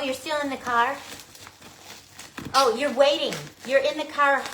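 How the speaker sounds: loud, bright calling to someone nearby; excited calling out. Real, not acted. Thrilled unboxer calls loudly to Connie waiting in the car, excited. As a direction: call out to her, thrilled she's waiting.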